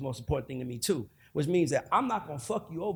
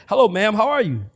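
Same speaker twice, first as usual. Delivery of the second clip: proper, courteous hello, a bit louder; polite customer voice; 4 semitones higher, 10 dB louder than usual. Retold or imitated. Wheelchair pusher greeting an old passenger for a tip, polite and proper. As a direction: put on your best tip-earning manners. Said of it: "so you gotta learn to say".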